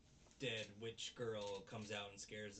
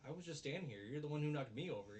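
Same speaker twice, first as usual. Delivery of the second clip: raised-pitch imitation of defending himself; mock protest; 4 semitones higher, 3 dB louder, faster than usual. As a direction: throw the blame back, mildly hammed up. Acted quarrel, he answers back.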